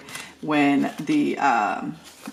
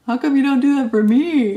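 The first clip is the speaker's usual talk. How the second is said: high, loud teasing whine; whiny daughter; 8 semitones higher, 9 dB louder than usual. Retold or imitated. Mom imitating her daughter's teasing complaint, high and loud. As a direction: put on the daughter's jokey complaint, pitched up. Daughter's joke voiced by the speaker.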